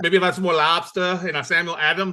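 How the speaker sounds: put-on jokey Boston accent with dropped R's. Host joking about lobster with guest, playful Boston accent. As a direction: put on Boston vowels for fun. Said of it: "better on the Boston accent".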